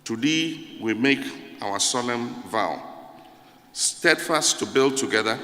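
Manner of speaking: measured solemn reading; anthem recitation. Shown as a demonstration. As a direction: recite it like a sacred vow, unhurried. Reciting the anthem's second stanza.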